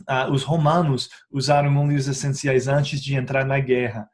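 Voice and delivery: usual speaking voice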